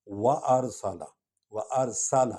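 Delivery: the س in وَأَرْسَلَ hissed clearly like a whistle; sharp whistling س in وَأَرْسَلَ; whistling sin. Shown as a demonstration. Teacher shows the whistling س. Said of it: "سین سیٹی کی آواز نکلے گی".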